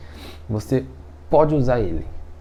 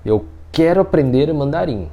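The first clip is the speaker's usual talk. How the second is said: firm, committed "quero"; firm want. Shown as a demonstration. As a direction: state it as a decided intention. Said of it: "é diferente você falar assim".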